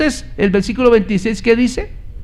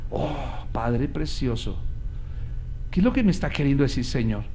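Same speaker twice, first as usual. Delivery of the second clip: quiet prayer; 8 semitones lower, 6 dB quieter than usual. Acted. Preacher musing to God before the congregation, hushed and prayerful. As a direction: pray softly to the Father mid-sermon.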